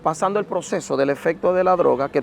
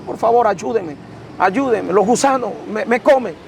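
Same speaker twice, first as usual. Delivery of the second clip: grito desesperado; 4 semitones higher than usual. Retold or imitated. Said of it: "empiezo a gritar con gran desesperación".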